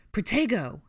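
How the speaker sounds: high, loud spell cry; urgent defensive yell; shouted spell. A narrator's reading. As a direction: shout it to block an attack. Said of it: "Harry shouted".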